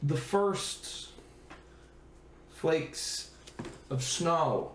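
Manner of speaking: slow, measured scene-setting; story narration. A narrator's reading. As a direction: paint the cold scene slowly. GM sets wintry scene.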